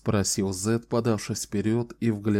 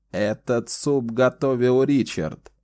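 even voice; 3 semitones higher, 3 dB louder than usual. Acted. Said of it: "сказал он ровным голосом".

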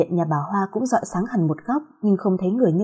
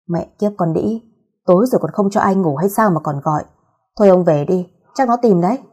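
grumbling. Acted. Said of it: "làu bàu".

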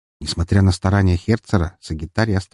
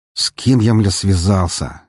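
weary exasperation, slowing down; slow, resigned lament; resigned sigh; slower than usual. Acted. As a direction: sigh it out, doomed. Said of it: "обречённо вздохнул Херцер".

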